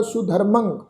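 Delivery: ਸੁਧਰਮੰ with a nasal ending; nasal pronunciation. Shown as a demonstration. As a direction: end ਸੁਧਰਮੰ on a nasal -ang. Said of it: "ਨਾਸਕੀ ਉਚਾਰਨ ਹੋਏਗਾ".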